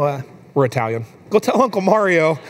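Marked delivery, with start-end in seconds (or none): 1.3-2.4 put-on higher-pitched talking-to-a-toddler voice; lightly acted parent prompting a small child; dad coaxing toddler. Dad asks his little girl to apologize, gently coaxing.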